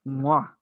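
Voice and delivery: chef's-kiss "mwah"; appreciative kiss sound. Real, not acted. Fan praising a favourite fight, appreciative kiss sound. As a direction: smack out a relishing kiss.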